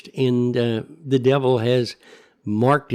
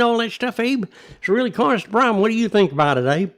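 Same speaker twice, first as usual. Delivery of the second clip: griping local voice; 5 semitones higher than usual. Retold or imitated. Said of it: "the only conversation we hear is".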